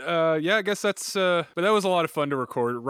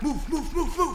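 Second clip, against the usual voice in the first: urgent urging; 10 semitones higher than usual. Acted. Urging escape.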